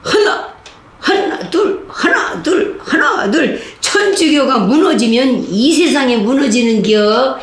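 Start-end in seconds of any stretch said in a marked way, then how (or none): 0.0-3.6 high chanted one-two count; marching count. Retold or imitated. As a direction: count the steps like a drill guard. Guard counting marching cadence. (높은 목소리로 구령 붙이기)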